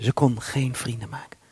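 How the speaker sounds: breathy whisper, voice gone; whispered aside about his mother. Real, not acted. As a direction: whisper it like a sad secret. Pastor hushes sad remark.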